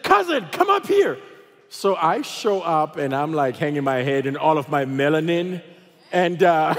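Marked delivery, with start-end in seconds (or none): 0.0-1.2 high-pitched holler to someone far away; hammed-up summons across a crowd; imitated calling out. Friend calls his supposed cousin to check-in, mock holler.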